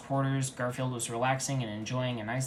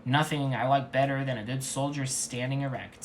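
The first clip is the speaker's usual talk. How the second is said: sassy seduction; 3 semitones higher, 4 dB louder than usual. Acted. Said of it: "with sassy seduction".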